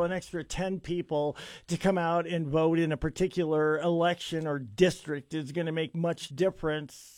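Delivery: dry sarcastic tone, mock dismissive. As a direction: say it with heavy irony, tongue in cheek. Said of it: "I'm gonna be very sarcastic here".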